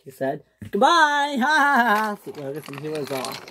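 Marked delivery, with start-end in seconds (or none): 0.7-2.2 high, bragging goodbye with a laugh; gloating laugh. Acted. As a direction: laugh smugly as you leave. Fergus gloats leaving.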